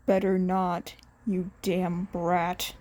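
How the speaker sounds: gruff fond teacher. Acted. Aizawa gruff affection.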